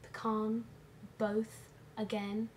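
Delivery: put-on light British accent, word by word; a playful put-on British accent; mock British accent. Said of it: "in a British accent".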